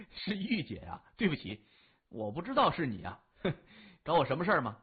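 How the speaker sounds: sheepish, quick, with little laughs; embarrassed laugh. Acted. Boy apologizing to Yu-jie, sheepish laughing. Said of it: "他不好意思地说".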